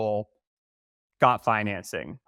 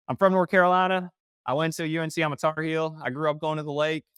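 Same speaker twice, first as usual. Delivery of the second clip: exaggerated Southern accent, higher pitch; 6 semitones higher than usual. Shown as a demonstration. Winning over a local banker, exaggerated Southern accent. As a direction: lay on a hammed-up Southern accent. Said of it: "I forgot my Southern accent".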